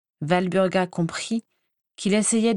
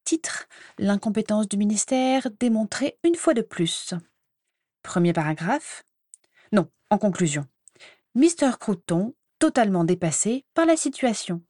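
dictating murmur; 3 semitones higher than usual. Acted. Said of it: "et murmura en s'éloignant".

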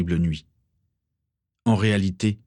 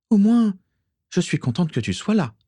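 affectionate; 12 semitones higher than usual. A narrator's reading. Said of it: "en lui caressant la joue".

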